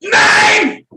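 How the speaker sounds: shrieking high fake German tirade; a screaming cartoon German, very high; mock German rant.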